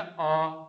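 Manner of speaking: "अ" said short and clipped; quick demo of short "अ"; short vowel demo. Shown as a demonstration. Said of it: "अ बोला, समय बहुत कम लगा".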